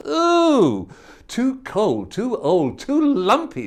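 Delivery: spat out. Acted. Goldilocks rejecting the middle bowl, fussy and disgusted. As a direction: spit the words out in disgust. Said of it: "she spat".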